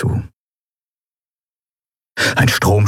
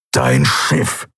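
snorted; 8 semitones lower than usual. A narrator's reading. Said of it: "schnaubte er".

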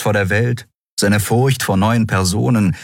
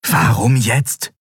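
slow, raised inner question; anguished inner thought; 7 semitones higher, slower than usual. A narrator's reading. Endriel wondering at Keru's attack, anguished thought. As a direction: think it aloud, bewildered. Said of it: "dachte sie".

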